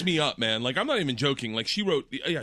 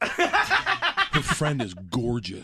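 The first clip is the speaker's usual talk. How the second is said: drawn-out admiration; much slower than usual. Real, not acted. Admiring friend's photo.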